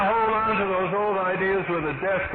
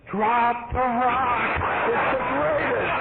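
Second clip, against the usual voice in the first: eager urging; 7 semitones higher, slower than usual. Retold or imitated. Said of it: "you're saying".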